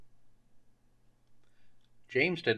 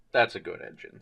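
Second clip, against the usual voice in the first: gently approving, a touch lower; a mild kindly pat on the back; 5 semitones lower than usual. Acted. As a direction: kind praise from the boss. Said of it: "said the Fat Controller kindly".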